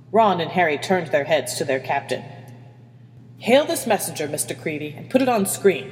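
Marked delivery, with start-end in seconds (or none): 3.4-5.9 composed captain's command. Acted. Captain orders officer to hail the messenger, commanding. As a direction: issue the order with authority. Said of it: "Hermione commanded".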